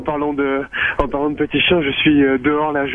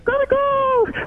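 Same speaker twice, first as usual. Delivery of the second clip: a very high, strained rooster crow; much slower than usual. Pretend. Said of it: "Fais-moi le coq".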